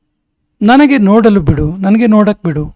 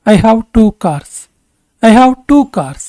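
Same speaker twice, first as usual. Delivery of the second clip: slow, measured English for learners; slow model sentence; much slower than usual. Shown as a demonstration. Teacher models English for Kannada learners, slowly and deliberately. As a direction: say it slowly with spaced words.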